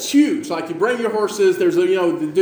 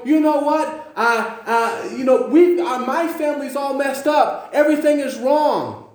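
higher-pitched, halting lament; acted complaint; 5 semitones higher than usual. Preacher voices people judging their messed-up life, acted complaint. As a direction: voice someone fed up, pitched up.

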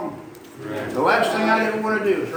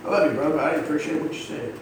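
calm honest talk; 3 semitones lower, 3 dB quieter than usual. Shown as a demonstration. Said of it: "look at somebody and say".

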